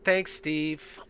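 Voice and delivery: put-on high, childlike voice; little boy. Little boy thanking his father's guest, high childlike voice. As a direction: thank him like a simple young boy. GM voices eight-year-old Patrick.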